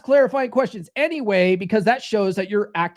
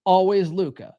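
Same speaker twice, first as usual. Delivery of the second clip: slow, deliberate mantra; drilled catchphrase, unhurried; repeat-after-me slogan; slower than usual. Shown as a demonstration. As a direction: space it out for the group to repeat. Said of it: "Say it with me now".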